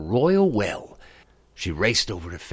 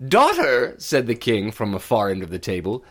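a king demanding an answer; stern king; 9 semitones higher, 6 dB louder than usual. Acted. King questions his daughter at dinner, loud and demanding.

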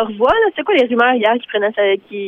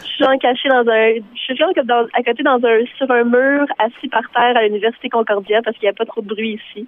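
hoarse, strained voice. Real, not acted. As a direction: voice worn out from shouting. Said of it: "t'as une petite voix enrhumée".

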